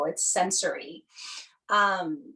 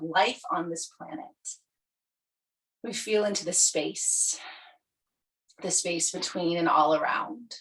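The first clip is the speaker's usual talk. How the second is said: measured yoga nidra guiding voice, easing down at phrase ends; guided meditation; 2 semitones lower than usual. Acted. Yoga teacher settling students for Yoga Nidra, guided meditation. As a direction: lead them gently into settling on the earth.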